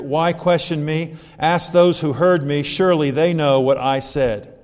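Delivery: earnest, measured reading of Jesus' words; scripture reading. Acted.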